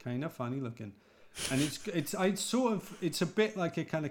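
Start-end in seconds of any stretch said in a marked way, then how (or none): 0.0-0.9 put-on lightly done Fargo accent; a Brit's go at Minnesotan vowels. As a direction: try a light Minnesota lilt. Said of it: "it's sort of like the Fargo accent".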